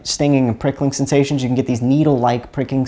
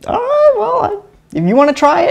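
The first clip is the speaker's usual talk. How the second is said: very high-pitched retort to a doubter; high, put-on voice offering a challenge; reenacted challenge. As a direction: act out daring a skeptic, pitched way up. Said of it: "I say".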